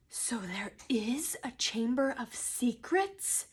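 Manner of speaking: slow, hushed, whispered question. A narrator's reading. Harry learning of the secret chamber, whispering. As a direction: whisper it slowly, as a dawning realisation. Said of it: "Harry whispered".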